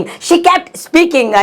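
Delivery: slow, each syllable long; slow teaching repeat. Shown as a demonstration. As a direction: dictate it very slowly. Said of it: "slow repeat for learners".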